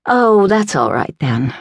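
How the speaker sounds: mollified, lightly amused; smiling reply. A narrator's reading. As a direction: let a smile lift the pitch. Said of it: "Lady had smiled and said".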